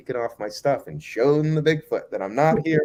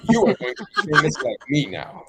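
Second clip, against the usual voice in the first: higher, laughing pompous praise; laughing boss; 5 semitones higher, 4 dB louder than usual. Retold or imitated. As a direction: gloat through a laugh. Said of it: "he's like".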